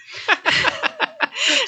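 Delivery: sudden high giggle at herself; a high laugh bubbling out; high burst of laughter. Real, not acted. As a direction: laugh it off, embarrassed. Laughs at losing her words.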